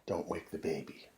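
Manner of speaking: very soft, low title; hushed title. Acted. Storyteller whispering the title so not to wake baby. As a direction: say it as if the baby sleeps.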